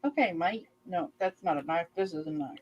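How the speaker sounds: lightly imitated Australian movie accent; Crocodile Dundee. Wife mimicking husband's movie quote, lightly put-on Australian. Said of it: "he tries to mimic that voice".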